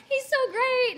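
put-on high gushing girlfriend voice; gushing friend. Friend Kelly hyping up the blind date, gushing high. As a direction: gush it up high like an excited friend. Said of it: "my friend Kelly was like".

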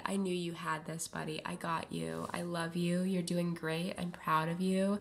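fond and hushed; tender encouragement. Real, not acted. Reassures favourite player Bud.

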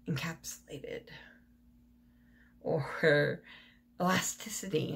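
speaking without dentures in; words slurred with no teeth; toothless. Real, not acted. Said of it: "say some of these words without my teeth in".

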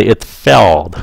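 "it failed" with an ay vowel and a stopped d. Shown as a demonstration. Teacher showing students failed against feel. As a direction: say "it failed" with ay and cut the breath at the end. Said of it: "Các bạn nghe kỹ nè".

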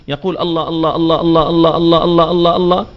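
الله clipped to a quick "la la", fast and rhythmic; mock fast dhikr. Shown as a demonstration. Preacher mimics clipped dhikr chant, rapid "la la". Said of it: "بزعمهم يذكرون".

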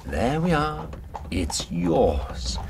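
whispered, mocking gift. Gunman handing Sophie the gun in a mocking whisper.

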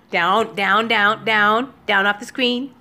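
firm, repeated command; shooing a pet. Real, not acted. Owner ordering her kitty off the window screen, firm shooing. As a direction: order the cat down, word after word.

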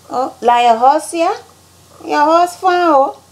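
high, sing-song Liberian English; Liberian accent. Shown as a demonstration. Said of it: "how Liberians say things".

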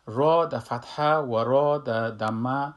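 را said slow and full-mouthed in فتحه and دمه; heavy ra. Shown as a demonstration. Teacher shows heavy را to students, slowly. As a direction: stretch each را heavy and slow.

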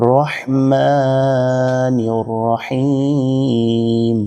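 রহমানির with a breathy throat ha, very slow; throaty rah. Shown as a demonstration. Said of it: "রহ, এখানে রহ বলতে হবে". (রহমানির-এ গলা থেকে হা)

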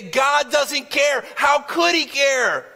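a frightened believer crying that God won't wake; despairing complaint. Retold or imitated. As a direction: voice the panic of someone sinking. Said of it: "And we say".

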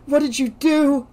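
high, frightened demand; girl demanding answers from mother; panicked accusation. A narrator's reading. Confronting drugging mother.

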